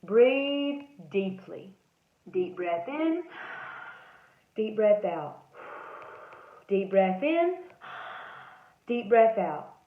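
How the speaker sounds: slow, steady breathing cues; calm breathing. Shown as a demonstration. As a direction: guide yourself to calm down. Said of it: "rules and tools".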